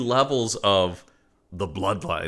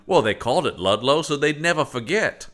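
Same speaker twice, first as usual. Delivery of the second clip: put-on Maine accent; 4 semitones higher than usual. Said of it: "By the way, I just did a Maine accent".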